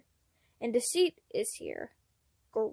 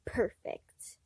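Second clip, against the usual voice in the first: whispered aside; 5 dB quieter than usual. Acted. Secret satisfied aside.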